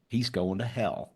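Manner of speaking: soft mock-ominous undertone; under the breath. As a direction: play a juror muttering judgment to herself. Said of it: "under her voice, she would yell".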